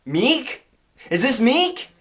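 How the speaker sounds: high, rising question in a mock Chinese accent; put-on Chinese accent, high and questioning; imitated Chinese restaurant owner. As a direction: chirp it up high like a Chinese caller. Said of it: "the person on the other line says".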